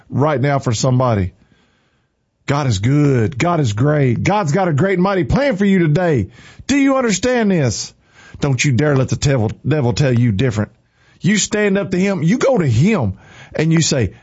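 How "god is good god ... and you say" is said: fired-up preaching to listeners; emphatic, charged-up exhortation. Real, not acted. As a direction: preach it with real urgency. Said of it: "God got me fired up this morning".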